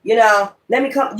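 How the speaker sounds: imitating nosy people asking about your awakening, high and eager; mock eager seeker. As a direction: play a breathless spiritual tourist. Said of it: "You gonna meet people just talk just like that".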